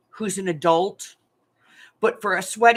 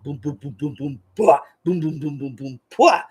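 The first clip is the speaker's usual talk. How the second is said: silly pumping sounds; 4 semitones lower, 5 dB louder than usual. Shown as a demonstration. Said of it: "with a silly little voice".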